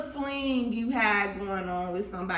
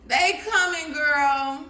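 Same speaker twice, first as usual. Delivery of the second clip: excited shout; 3 semitones higher, 5 dB louder, slower than usual. Real, not acted. Tarot reader hyping the energy.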